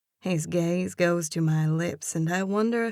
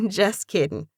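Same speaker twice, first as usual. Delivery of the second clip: snigger then light tease; 3 semitones higher than usual. A narrator's reading. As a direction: laugh it off, sniggering. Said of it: "It breaks from my lips in a snigger".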